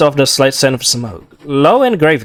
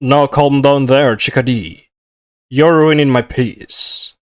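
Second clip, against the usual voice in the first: lightly voiced devil. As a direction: try again at the devil's voice, slow and heavy. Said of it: "It's hard to do, his voice".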